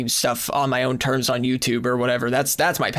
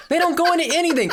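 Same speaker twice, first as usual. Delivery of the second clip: laughing yell; 13 semitones higher, faster than usual. Real, not acted. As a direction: shout it while laughing. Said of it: "which is why I'm yelling".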